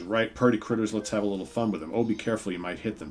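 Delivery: put-on half-hearted hillbilly accent for a cruel joker; a hint of rural American twang. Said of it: "the other guy goes".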